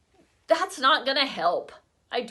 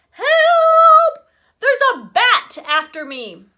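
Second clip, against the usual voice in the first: high screaming yell for help; panicked yell; 13 semitones higher, 14 dB louder, slower than usual. A narrator's reading. Teen girl fleeing a bat, panicked scream. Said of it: "tore through the house yelling".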